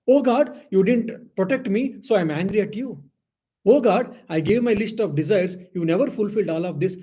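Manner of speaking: voicing a devotee angry at God for unanswered prayers; angry complaint to God. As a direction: scold God like a hurt child. Devotee angrily scolding God.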